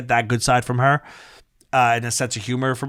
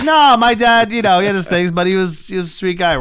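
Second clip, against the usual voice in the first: raised, louder impression of an Italian guy; higher, louder voice, shrugging off a dad's temper; casual Italian-American guy, higher and louder; mock Italian son; 4 semitones higher, 3 dB louder than usual. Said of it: "difference between Jewish and Italian dads".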